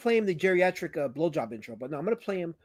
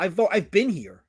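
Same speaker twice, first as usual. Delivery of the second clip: laughing protest; 3 semitones higher, 6 dB louder than usual. Real, not acted.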